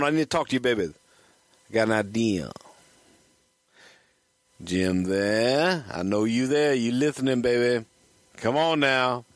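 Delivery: coaxing Dusty Rhodes phone voice; Dusty Rhodes impression. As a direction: sweet-talk the answering machine as Dusty. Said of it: "I might do a decent Jim Barnett. I mean, uh, Dusty Rhodes".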